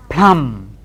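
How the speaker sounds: "plum" with no b; "plum" with b silent. Shown as a demonstration. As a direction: say "plum" dropping the b. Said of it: "P L U M B".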